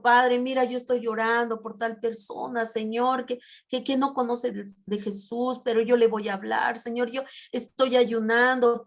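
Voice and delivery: praying for someone who doesn't know Jesus, pleading; pleading prayer. Shown as a demonstration. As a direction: beg the Father for help, rising in urgency. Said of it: "el Señor nos escucha".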